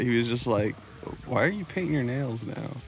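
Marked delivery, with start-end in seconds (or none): 1.3-2.8 softly voiced, awkward dad question; mild embarrassment. Imitating dad asking about nail polish, mildly embarrassed. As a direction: ask it quietly, a little embarrassed. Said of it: "embarrassed a little bit".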